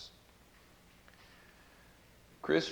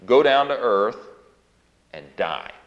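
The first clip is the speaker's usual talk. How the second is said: mock divine command; 8 dB louder than usual. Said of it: "did the Father say".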